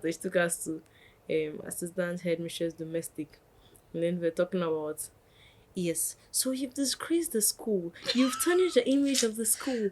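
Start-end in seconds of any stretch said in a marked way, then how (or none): 5.7-9.9 high-pitched stern accusation; mock reprimand, pitched well up; acted scolding. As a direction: imitate a headmistress laying out the charges. Acting out the headmistress's accusation.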